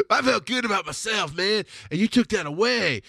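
high-pitched redneck protest, hammed up. Podcaster mocking their own bad feeling about themselves, redneck voice. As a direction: play your sore inner self as a high redneck. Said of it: "I do this redneck voice".

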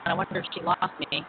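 muffled bad connection; underwater. Real, not acted. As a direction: sound like you're underwater. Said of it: "you sound like you're underwater".

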